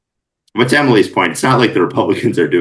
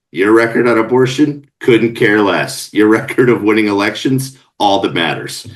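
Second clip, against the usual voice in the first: loud, higher, dismissive party strategist; blunt political operative; 7 semitones higher, 5 dB louder than usual. Retold or imitated. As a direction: bark it like a hard-nosed strategist. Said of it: "the first thing they say is".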